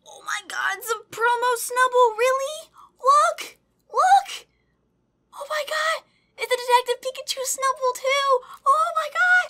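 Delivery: very high, loud excited screaming; real high-pitched fangirl squeal; ecstatic shriek. Real, not acted. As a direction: shriek with delight and disbelief. Thrilled by promo card.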